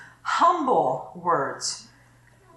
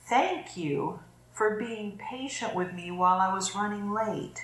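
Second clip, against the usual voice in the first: grateful tone; 7 dB quieter than usual. Shown as a demonstration. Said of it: "this is what they taught me to say".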